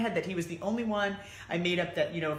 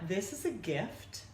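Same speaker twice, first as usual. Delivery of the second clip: calm; 3 semitones higher, 4 dB quieter, slower than usual. Retold or imitated. Calm reframing after panic.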